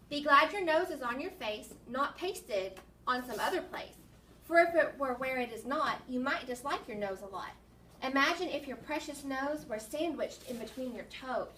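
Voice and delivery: put-on lilting poem reading for children; poem read-aloud. Teacher reads a funny nose poem to children, poem read-aloud. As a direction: read the rhymes out with a measured beat.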